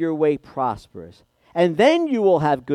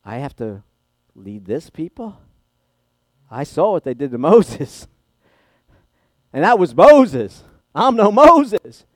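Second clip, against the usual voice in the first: an overwhelmed man rising to a panicked protest; fearful Joshua, building; 8 dB louder than usual. Retold or imitated. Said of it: "that he was afraid".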